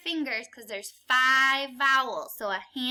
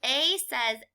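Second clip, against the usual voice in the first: very slow, stretched A; drawn-out vowel sound; 3 semitones lower, much slower than usual. Shown as a demonstration. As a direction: stretch the A out for kids. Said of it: "What does A say".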